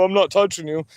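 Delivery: bratty taunt with the weight on "not"; childish taunt. Retold or imitated. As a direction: tease like a two-year-old, hitting "not". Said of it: "just gonna insult you and go".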